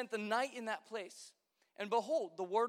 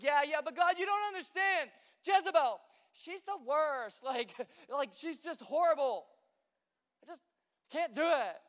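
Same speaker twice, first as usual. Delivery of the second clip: higher, louder complaining voice; whiny Elijah; 3 semitones higher, 3 dB louder than usual. Retold or imitated. Elijah complaining to God, whiny. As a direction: whine like a sulking kid. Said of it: "He's like".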